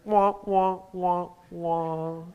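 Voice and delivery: mimicked sad trombone, sinking and fading; sad trombone wah wah. Pastor mimics a sad trombone to the congregation. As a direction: hum a sad trombone that droops. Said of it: "You can almost hear the sad trombone".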